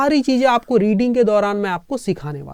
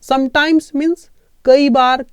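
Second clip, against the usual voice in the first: slow repeat for memorizing; 3 semitones higher, much slower than usual. Shown as a demonstration. Teacher repeating the word meaning for students to memorize. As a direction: repeat it slowly so it sticks. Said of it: "इसको याद रख लो".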